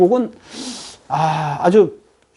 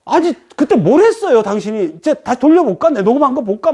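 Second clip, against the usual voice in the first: indignant accusation; 4 semitones higher than usual. Acted. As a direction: confront them, insisting on proof. Stalker demanding compensation.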